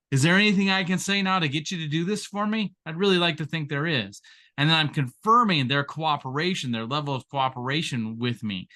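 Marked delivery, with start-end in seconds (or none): 0.1-4.2 polite persuasion demo. Shown as a demonstration. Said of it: "The first option I'm gonna give".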